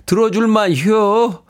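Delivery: slow Chungcheong verdict; 충청도 말투로 느리게; Chungcheong dialect. Retold or imitated. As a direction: drawl it like a Chungcheong native. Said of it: "삼칠사오 님".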